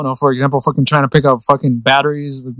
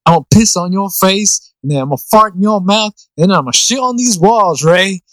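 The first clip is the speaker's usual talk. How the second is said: quoting movie line; 5 semitones higher than usual. Retold or imitated. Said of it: "the cringiest line I've ever heard".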